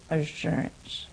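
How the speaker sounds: quiet echo. Shown as a demonstration. Echoing the key word softly.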